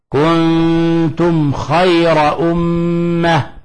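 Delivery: very slow chanted verse; slow recitation. Shown as a demonstration. Teacher recites the example verse, slow chant. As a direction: stretch the verse out calmly. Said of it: "في نحو قوله تعالى".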